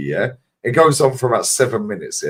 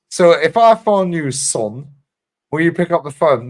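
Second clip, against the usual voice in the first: put-on Brian Clough accent; 5 semitones higher, 4 dB louder than usual. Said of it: "nails his fucking accent".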